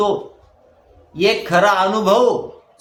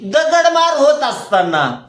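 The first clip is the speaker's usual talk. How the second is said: raised, emphatic sermon voice; fervent preaching; 6 semitones higher, 4 dB louder than usual. Real, not acted. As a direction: preach it out, stretching the key words. Preaches from a verse.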